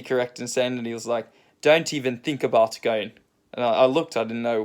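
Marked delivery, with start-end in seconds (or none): 1.6-3.1 lightly imitated South African accent; a careful attempt at a South African accent. Surfer quoting the bloke next to him, light South African accent. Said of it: "in a South African accent".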